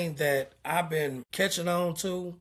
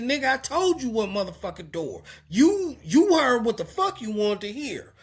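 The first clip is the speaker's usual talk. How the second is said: retold loud argument; 4 semitones higher than usual. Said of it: "we're loud".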